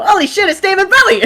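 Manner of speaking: high, loud starstruck gasp; shocked exclamation. Retold or imitated. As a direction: blurt it out in total disbelief. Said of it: "they go".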